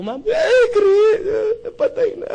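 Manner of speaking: half-played sob for laughs; mock crying wail. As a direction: wail it out like the grieving wife. Grieving widow voiced in story.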